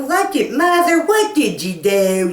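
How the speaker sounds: high, loud alarmed daughter voice; shocked daughter. Retold or imitated. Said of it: "And she went".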